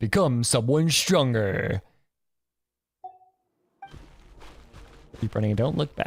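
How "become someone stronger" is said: epic movie trailer voiceover narrator voice. Speaker repeating quoted game lines, in a movie trailer voice. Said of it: "sound like a fucking trailer voice".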